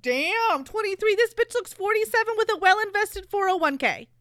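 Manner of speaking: laughing disbelief. Retold or imitated. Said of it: "And Tessa's like".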